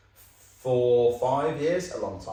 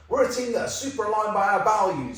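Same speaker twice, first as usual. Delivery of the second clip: lightly hammed-up corporate cheer, laughing through it; sending up a fake values post with a laugh; mock corporate voice; 7 semitones higher than usual. Podcast host mocking corporate LinkedIn posts, hammed-up and laughing. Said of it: "crappy corporate content where it's like".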